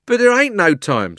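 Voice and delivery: high, loud protest; urgent cabby. A narrator's reading. Cabby protesting to the policeman, high and urgent. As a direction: cut in urgently.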